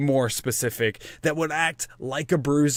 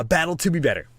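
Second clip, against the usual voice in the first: movie trailer voice; 3 semitones higher, faster than usual. Acted. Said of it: "I have to talk like I'm a movie theater trailer person".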